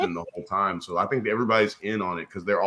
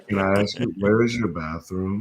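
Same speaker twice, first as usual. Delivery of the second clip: the voice. Retold or imitated. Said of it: "do the voice".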